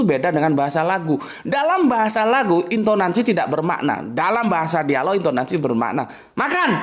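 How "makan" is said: "Makan." rising up at the end like a question; questioning tune. Shown as a demonstration. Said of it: "lain tekanan, lain arti".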